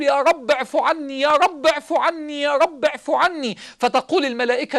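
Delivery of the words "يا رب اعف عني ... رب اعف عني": repeated plea. Retold or imitated. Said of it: "يقول".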